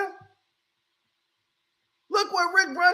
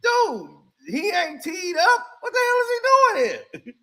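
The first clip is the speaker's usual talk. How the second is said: shocked coach; 5 semitones higher than usual. Retold or imitated. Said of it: "'cause he's like".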